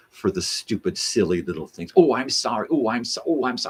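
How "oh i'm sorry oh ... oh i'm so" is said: high, louder fluttery oh I'm sorry; mock apologizer. Mocking people who apologize for silly things, high. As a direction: ham up a nervous apology.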